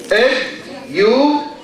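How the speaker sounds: Education said slowly, syllable by syllable; slow syllable demo. Shown as a demonstration. Teacher showing students how to count syllables, slow and clear. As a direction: draw out Education so the class can count its syllables. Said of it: "how many syllables".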